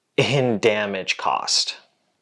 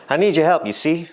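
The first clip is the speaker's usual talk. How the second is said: put-on higher, louder folksy old-time boss; 1950s boss talk; 7 semitones higher, 4 dB louder, faster than usual. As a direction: play a corny fifties boss. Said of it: "Stop talking like you're from the fifties".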